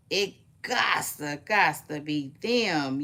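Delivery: "gots" drawn out slowly each time; slow, repeated punch on "gots"; preacher emphasis on GOTS. Pretend. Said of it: "turning into my, um, preaching voice".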